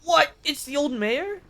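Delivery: loud high what in surprise; surprised. Real, not acted. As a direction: blurt it out, startled. Surprise at a character.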